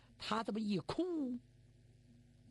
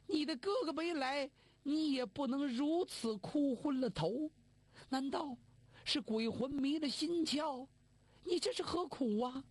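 put-on higher, fretful old mother; worried mother reproaching; 5 semitones higher than usual. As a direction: reproach him out of worry. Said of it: "元博". (母亲心疼地埋怨儿子)

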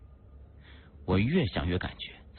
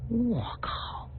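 high-pitched, drawn-out expletive; appalled high yelp of a curse; shocked exclamation. Acted. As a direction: blurt it high in disbelief. Narrator reacts to grotesque sight.

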